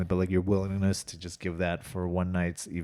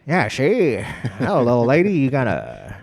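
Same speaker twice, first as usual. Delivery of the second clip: higher, louder bubbly flapper slang; 1920s flapper voice; 3 semitones higher, 6 dB louder than usual. Pretend. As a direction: toss it off like a playful 1920s flapper. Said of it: "Everybody has to talk like a flapper from the twenties".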